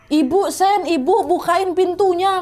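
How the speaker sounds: a hint of a calling mother. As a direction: call through a closed door, drawn out at the end. Mother calling through the door.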